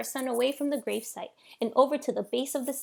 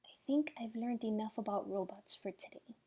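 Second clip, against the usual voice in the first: whispered; 6 dB quieter than usual. A narrator's reading. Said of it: "he whispered back".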